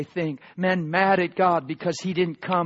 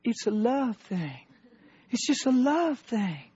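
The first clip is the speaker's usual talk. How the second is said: retold crying; 6 semitones higher, 3 dB quieter than usual. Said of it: "she starts crying".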